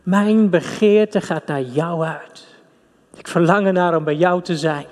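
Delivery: slow, lightly voiced God; God's longing words. Preacher voicing Christ on the cross, slow and tender. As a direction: draw out God's longing slowly. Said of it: "met die ogen die zeggen".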